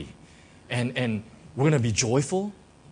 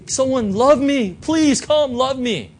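pleading for love; 9 semitones higher, 8 dB louder, slower than usual. Retold or imitated. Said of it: "to say".

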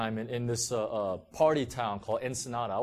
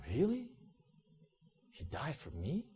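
stunned disbelief; 8 dB quieter than usual. Retold or imitated. Stunned listener's inner response.

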